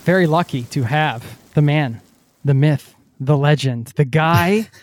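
put-on British-accented dramatic narrator introduction; mock British accent. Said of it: "I'll get off the accent thing".

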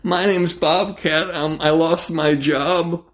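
very high strained yelling voice, settling to high; frantic high-pitched Bobcat impression; Bobcat's voice. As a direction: go way up into a frantic squawk. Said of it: "And he's like".

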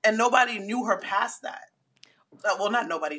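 hushed unvoiced aside; whisper. Real, not acted. Telling a friend on the podcast, whispered. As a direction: say it under your breath like a secret.

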